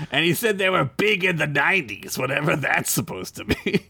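lightly voiced Gorn, deliberate delivery. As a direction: read it as a pompous alien reptile. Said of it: "you do a Gorn voice this time".

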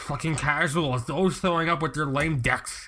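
wet lisping s sounds; spray the s sounds through puffed cheeks; spitty s sounds. Acted. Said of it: "I spit everywhere".

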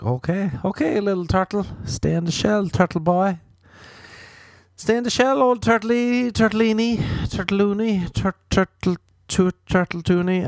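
high teasing singsong; mocking baby talk. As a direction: coo at him like a sulky toddler. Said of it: "And you're like".

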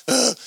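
high, short groan of dread; reluctant groan. Retold or imitated. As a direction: groan as if begging to get out of it. Groans at God's request.

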